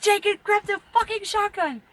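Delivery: high, urgent order; urgent call. Retold or imitated. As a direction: hiss for the shotgun in a hurry. Urgent call to son at night.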